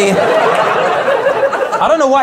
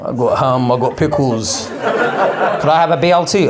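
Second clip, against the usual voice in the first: sandwich dealer; 3 semitones lower, slower than usual. Retold or imitated. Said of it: "like some weird drug dealer".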